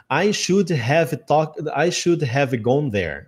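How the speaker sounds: very slow "I should have", each word separate; word-by-word "should have gone there"; every word pronounced. Shown as a demonstration. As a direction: read "should have" out in full. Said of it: "fala todas as palavras do modo que são".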